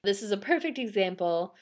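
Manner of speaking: measured read from a written account; storytelling read-aloud. Real, not acted. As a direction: read it out like a ghost-story report.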